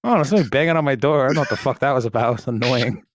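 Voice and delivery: quick, mildly annoyed mock parent; lightly voiced oblivious mom. Co-host playing mom questioned about missing son, mildly annoyed. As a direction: rattle it off as an unbothered complaint.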